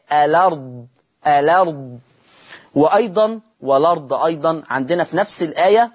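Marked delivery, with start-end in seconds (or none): 0.1-2.0 الأرض read as alard, vowel moved onto the lam; naql of the hamza. Shown as a demonstration. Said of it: "عشان كده تقرأ ألا".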